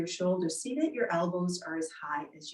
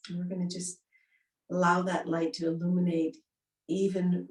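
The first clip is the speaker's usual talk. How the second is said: guided meditation. Acted. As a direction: lull them inward gently.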